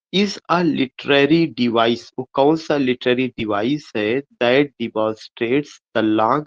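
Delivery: reading the exam question aloud very slowly, word by word. Acted. Teacher reads the MCQ question to students, slow dictation.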